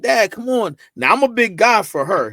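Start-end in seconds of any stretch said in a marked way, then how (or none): 0.0-0.8 high whiny daughter voice; high mock-whine of a daughter; daughter's whine. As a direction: mimic his grown daughter brushing him off. Daughter voiced in father's story.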